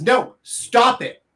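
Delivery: coy, playful refusal. Shown as a demonstration. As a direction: say it flirty and slow. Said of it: "polar opposites".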